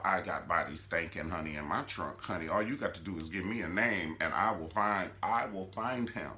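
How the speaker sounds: lightly voiced hitman boast; Mitch bragging. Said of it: "Mitch been telling y'all".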